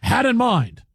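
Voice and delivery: deliberate, punched mock play-by-play; Marv Albert. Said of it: "do it like Marv Albert".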